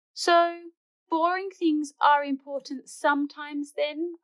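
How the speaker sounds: knowing tease. Acted. Mum to Bluey about boring things, teasing lilt. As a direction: ask with a knowing smile.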